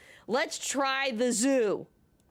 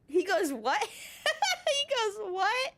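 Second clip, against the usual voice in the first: high, laughing retelling of his disbelief; squeaky-high with real laughter; 11 semitones higher, much slower than usual. Real, not acted. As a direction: lose it while quoting him. Cracks up quoting his reaction.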